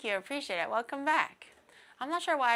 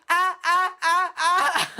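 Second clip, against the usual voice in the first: scared horror game streamer; 7 semitones higher, 8 dB louder, slower than usual. Retold or imitated. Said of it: "as your ringtone".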